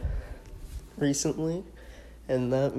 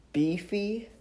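voice crack; 8 semitones higher than usual. Real, not acted. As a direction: voice cracking up high. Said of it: "That was a voice crack".

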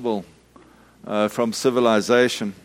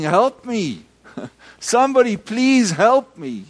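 high, raised plea with a laugh; retold shout; 9 semitones higher, 3 dB louder than usual. Preacher retelling the man's cry, raised and laughing. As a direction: echo his cry for help. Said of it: "continued to shout like that".

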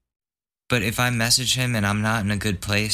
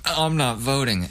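lightly higher, careless "I'm not voting"; mock dismissive; 5 semitones higher than usual. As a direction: mimic the shrugging non-voter. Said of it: "they're just like".

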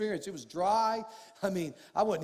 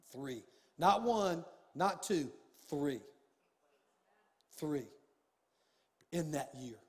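hushed emphasis; 6 semitones lower, 7 dB quieter, slower than usual. Real, not acted. Stresses three promotions.

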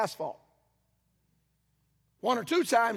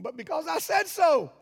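a higher, firmer mock-stern God; 7 semitones higher, 4 dB louder than usual. Preacher voices God answering Moses, mock-stern. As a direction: deliver it like a father ending the argument. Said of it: "He kinda told Moses".

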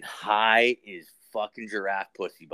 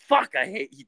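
mock angry buddy; 6 semitones higher, 4 dB louder than usual. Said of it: "he was actually mad at me".

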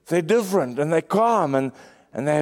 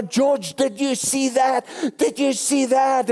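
put-on high, agitated old woman voice; panicky old wife; 9 semitones higher than usual. Wife in the car panicking to George, high flustered voice. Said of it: "I can just almost sense what she's saying".

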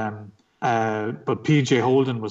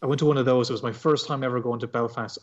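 ordinary talk, nothing marked

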